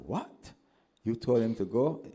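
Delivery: a sharp, high rising "What?" in mother's alarm; shocked mother. Retold or imitated. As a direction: voice jumps up in disbelief.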